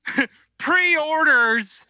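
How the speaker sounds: mock Southern rant. Co-host carries on the Southern rant.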